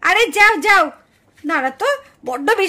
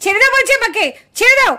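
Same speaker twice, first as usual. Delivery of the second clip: loud, straining demand; furious struggle; 4 dB louder than usual. Acted. Wife shouting at husband to let her go. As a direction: fight to break free. Held back during fight.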